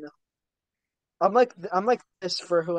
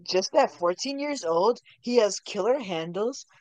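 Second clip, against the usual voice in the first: sports announcer. Pretend. Mock sports announcer hype.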